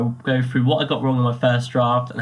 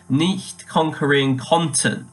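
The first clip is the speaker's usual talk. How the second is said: slow German phrase, landing on "konnten"; emphasis on konnten; 3 semitones higher, slower than usual. Shown as a demonstration. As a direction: lean on "konnten" with an open O, no umlaut. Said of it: "I put a lot of emphasis".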